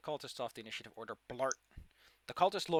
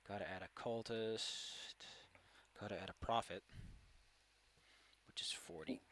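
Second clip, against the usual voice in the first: whispered; 5 semitones lower, 9 dB quieter than usual. Real, not acted. Whispered tally.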